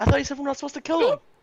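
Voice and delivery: high, fast, loud, excited voice.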